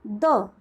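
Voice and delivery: द said short. Shown as a demonstration. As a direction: clip द to a quick uh. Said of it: "which is".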